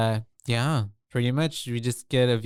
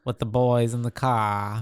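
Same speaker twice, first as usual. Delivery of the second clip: put-on New England accent; slower than usual. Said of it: "I can't do an accent to save my life".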